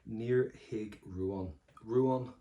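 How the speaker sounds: very slow, careful Irish model line; slow deliberate Irish for the examiner; slow model read. Shown as a demonstration. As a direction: spell out each word slowly for the class. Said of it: "we're gonna say this for our examiner now".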